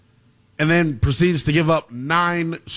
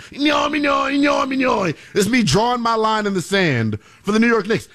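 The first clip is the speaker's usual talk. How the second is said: garbled cartoon gibberish voice, slow; mock monster-doodle growl, drawn out; Doodle Bob impression; 4 semitones higher, slower than usual. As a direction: bellow it like the scribbled cartoon doodle. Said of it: "do my best Doodle Bob impersonation".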